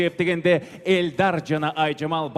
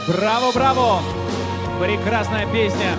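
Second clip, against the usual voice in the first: excited cheering; 5 semitones higher, 5 dB louder than usual. Acted. Host cheering after song.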